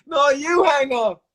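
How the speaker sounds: high, slow, teasing sweetheart voice; giggly late night call. Real, not acted. Playful you-hang-up game.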